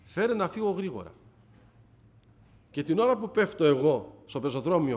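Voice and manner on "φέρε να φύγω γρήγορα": retold motherly yell, higher pitched; μητέρα που φωνάζει. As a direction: call out like a scolding mother, mildly raised. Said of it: "Μου φώναζε η μητέρα μου". (φωνή μητέρας που φωνάζει)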